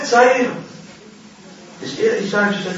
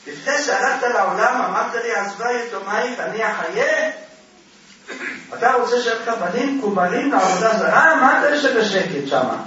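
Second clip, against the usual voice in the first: higher-pitched acted reproach; scolding her husband; 5 semitones higher than usual. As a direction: imitate a wife taking her husband to task. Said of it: "היא ישר צועקת עליו".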